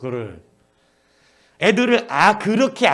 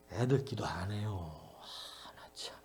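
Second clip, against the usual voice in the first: annoyed teacher; 10 semitones lower, 15 dB quieter, slower than usual. Retold or imitated. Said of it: "이러면서 막 화를 내는 거예요".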